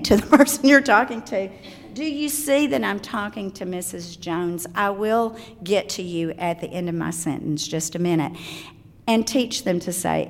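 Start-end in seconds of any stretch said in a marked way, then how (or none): 1.9-8.3 soft, low, controlled correction; parent's quiet aside. Acted. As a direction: lower your voice to put a child on hold. Parent answers interrupting child mid-conversation.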